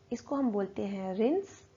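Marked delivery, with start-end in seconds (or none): 1.1-1.7 "रिंस" ending right on the s; silent final e. Shown as a demonstration. Teacher shows how rinse is said, silent e. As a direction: say "रिंस" as one syllable, no e sound at the end. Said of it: "ई हमारा silent हो जाता है".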